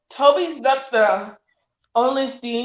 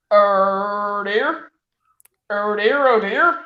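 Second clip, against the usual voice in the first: lightly put-on, repeated catchphrase; long level OH, rising DEAR; drawn-out mock dismay; Deck impression; slower than usual. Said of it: "I said that's my deck impression".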